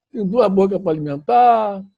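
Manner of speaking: half angry. Retold or imitated. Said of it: "meio já meio zangado".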